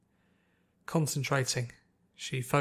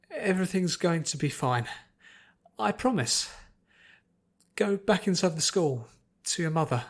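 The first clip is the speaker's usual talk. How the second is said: reassuring; 5 semitones higher than usual. Acted. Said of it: "with a smile that she hoped was strong".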